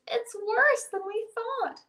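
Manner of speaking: high, dismayed cry; a lightly screamed complaint; mild scream. A narrator's reading. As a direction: wail it high without much volume. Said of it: "scream Old Woman and all the animals".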